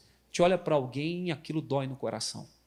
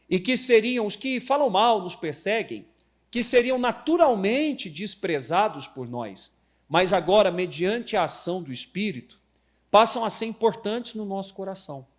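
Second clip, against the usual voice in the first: louder, measured reading; sermon text read aloud to the church; reading scripture; 3 semitones higher, 4 dB louder than usual. Acted. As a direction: read the passage with weight.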